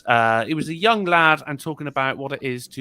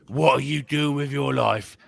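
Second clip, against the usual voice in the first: smoker mother; 7 semitones lower, 5 dB quieter than usual. Retold or imitated. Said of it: "you gotta sound like you smoke twenty cigarettes a day".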